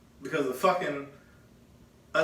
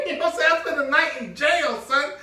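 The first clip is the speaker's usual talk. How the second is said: higher and louder, laughing through it; laughing disbelief; 10 semitones higher, 6 dB louder than usual. Real, not acted. Laughing at his cohost, high and loud. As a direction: laugh while driving it home.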